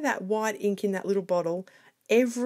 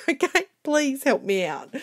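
laughing plea; 7 semitones higher, 6 dB louder than usual. Real, not acted. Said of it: "I'm relying on you guys".

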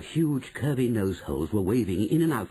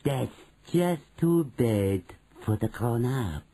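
slow, dismissive witch leader; slower than usual. Acted. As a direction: dismiss it slowly, with sinister relish. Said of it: "said the Grand High Witch".

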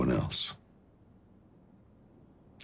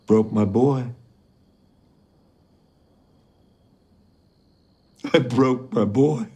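raised voice, heavy with guilt; anguished confession; 7 semitones higher, 5 dB louder than usual. Acted. Father confessing he broke his son, anguished. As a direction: confess it in pained, higher-pitched bursts.

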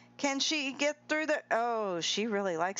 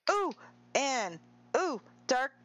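usual speaking voice

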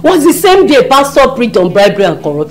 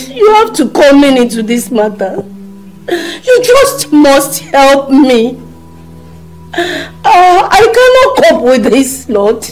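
crying plea; 4 semitones higher than usual. Acted. Pleading with God, crying.

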